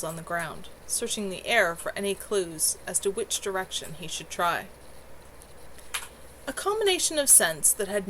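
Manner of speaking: steady read-aloud storytelling voice; story narration. A narrator's reading. Streamer reading her novel to chat, steady narration. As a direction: paint the scent-tracking scene calmly.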